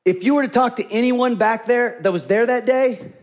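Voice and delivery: ordinary delivery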